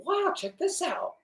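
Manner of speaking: awed wow. Retold or imitated. Watching the fish jump on the boat, awed and soft. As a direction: marvel softly at the jumping fish. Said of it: "I'm sitting there going".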